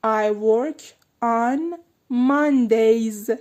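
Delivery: Mondays drawn out slowly, final s clear; stress on Mondays. Shown as a demonstration. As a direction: stretch out the s of Mondays. (کشیدن Mondays با س آخر واضح)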